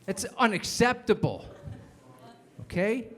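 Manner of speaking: a principal laying down the law; stern principal. Retold or imitated. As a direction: principal scolding young Corey, loud and stern. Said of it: "The principal sits me down and goes".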